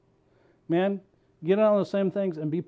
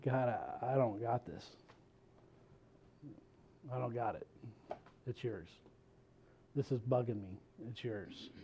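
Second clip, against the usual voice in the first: soft, quiet prayer of letting go; hushed surrender; 6 semitones lower, 14 dB quieter than usual. Retold or imitated. Preacher modeling a quiet prayer of surrender, hushed. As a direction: hand it over gently, much softer.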